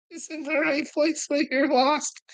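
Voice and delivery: very high put-on falsetto; mocking falsetto. Mocking a chat viewer in a high falsetto.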